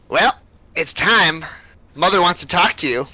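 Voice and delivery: lightly voiced hag, taking her time. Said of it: "She goes".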